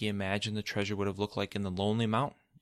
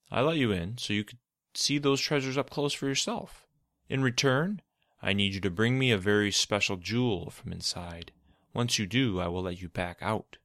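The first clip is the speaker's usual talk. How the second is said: sly, lightly voiced schemer; Izod voice; 2 semitones higher, 4 dB louder than usual. Izod character voice.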